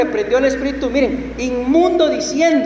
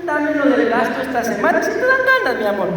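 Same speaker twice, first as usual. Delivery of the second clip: lightly acted wife asking her husband; esposa pidiendo; faster than usual. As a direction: wheedle like a wife, pitch jumping up mid-plea. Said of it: "como que llegue la esposa con el esposo". (esposa pidiéndole al marido)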